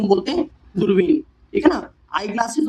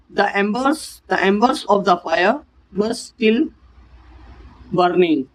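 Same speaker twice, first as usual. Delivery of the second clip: very slow, word by word; slow dictation; much slower than usual. Shown as a demonstration. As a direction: dictate each word for the class. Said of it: "example sentence dictated".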